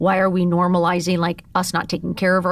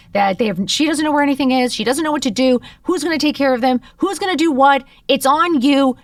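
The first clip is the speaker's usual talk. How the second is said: mother's frantic call, pitched up and rushed; retold panicked mom; 5 semitones higher than usual. Retelling her mom's hysterical phone call, raised and panicky. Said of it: "She calls me screaming at the top of her lungs".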